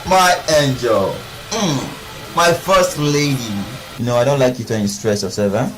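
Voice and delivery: calm, affectionate daddy talk; tender reassurance. Acted. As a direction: gently reassure a beloved child. Father reassures his little daughter.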